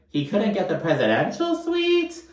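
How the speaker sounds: mock unimpressed. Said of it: "and she's like".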